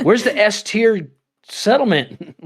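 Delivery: high, slow, laughing complaint; half-laughing mock outrage; laughing exasperation. At the haunted settlements, a high laughing grumble.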